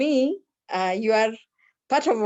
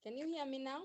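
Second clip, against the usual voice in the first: barely audible, far from the mic; weak, distant voice on a bad line; faint voice; 4 semitones higher, 20 dB quieter, faster than usual. Real, not acted. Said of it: "your voice is still faint".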